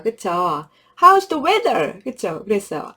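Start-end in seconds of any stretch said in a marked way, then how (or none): 1.0-2.0 high, loud, very slow read-aloud; storybook reading. Shown as a demonstration. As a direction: read it to a child with big expression. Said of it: "이 책에서도 볼게요". (높고 크게, 아주 천천히 동화 읽기)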